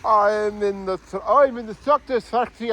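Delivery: put-on Scottish accent. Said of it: "I'm Scottish, you know".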